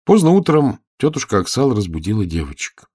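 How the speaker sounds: ordinary delivery, nothing marked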